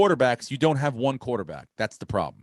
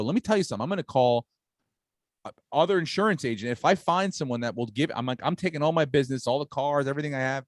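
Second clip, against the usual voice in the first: retold angry rant; 4 semitones higher than usual. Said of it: "I lost it".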